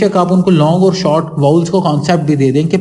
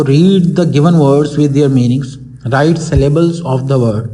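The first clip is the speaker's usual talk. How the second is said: reading the question aloud; 3 semitones lower, much slower than usual. Shown as a demonstration. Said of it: "पहला जो question solve करना है वो".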